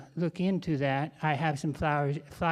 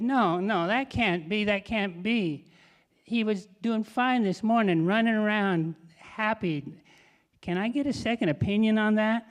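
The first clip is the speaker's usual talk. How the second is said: distressed disbelief; 5 semitones higher, 3 dB louder than usual. Acted. Owner denies dog's death.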